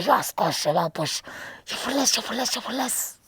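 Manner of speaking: mock muffled, tape over lips; tape over mouth. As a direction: talk as if mouth taped shut.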